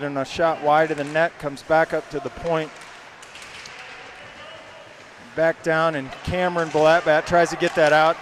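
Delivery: brisk live hockey call; play-by-play. Acted. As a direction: call the action as it happens.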